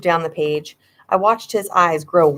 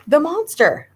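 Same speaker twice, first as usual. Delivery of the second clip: yell; 9 semitones higher than usual. A narrator's reading. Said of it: "I yelled".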